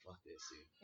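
very quiet, low grumble to oneself; hushed, retold resignation; low dismissal. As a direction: drop it right down, done with it. Retold giving up and going to bed.

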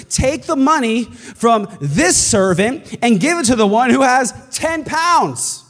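slow, high, sung-out royal order; king turning to his servants, ruling like a stern monarch. Acted. Slow lofty king command. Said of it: "the king ordered".

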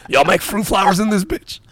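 very high, loud mock holler; boisterous, hammed-up shout; loud incredulous query. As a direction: push the question up in comic disbelief. Acted loud question to shop staff.

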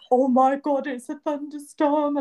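high, loud frightened cry; retold terror, lightly voiced; mock panic. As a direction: act out the fright. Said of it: "And I'm crying".

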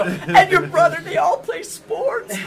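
high, loud, slowing reveal; re-enacted gleeful holler; excited announcement. Announcing more news to kids.

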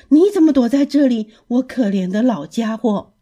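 high and loud at first, then easing; shocked, then pitying old friend; surprised exclaim. Acted. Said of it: "皮迪克吃惊地叫着". (先惊叫后怜惜)

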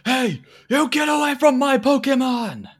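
high, loud, slow furious scream. Acted. Professor screaming at kidnappers grabbing his Pokemon, high furious scream. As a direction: shriek it at the thieves. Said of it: "starts screaming".

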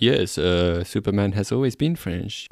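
lightly put-on French accent. Host playing the French president to cohost, mock French accent. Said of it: "not allowed to do that accent".

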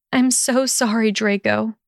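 lightly voiced tearful apology; a hint of sputtering sorry; sputtered apology. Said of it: "she sputtered".

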